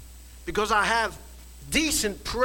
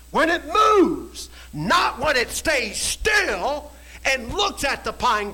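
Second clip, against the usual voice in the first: preaching shout; slower than usual. Real, not acted. Preacher to congregation, a slow forceful shout. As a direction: hammer it home to the congregation.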